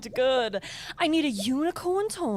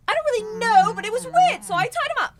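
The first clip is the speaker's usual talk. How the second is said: flustered excuses; 5 semitones higher, 5 dB louder than usual. Acted. Witch caught, making excuses.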